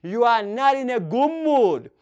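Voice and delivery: slow, each word set apart; slow teacher model. Shown as a demonstration. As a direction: model it slowly. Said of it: "you can say".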